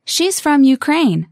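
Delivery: slow, over enunciating; slowly. Shown as a demonstration. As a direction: stretch every word out clearly. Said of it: "one more time slowly".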